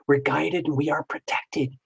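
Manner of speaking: soft mysterious hush. Acted. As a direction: whisper it like a secret. Hushed mystic emphasis on being guided.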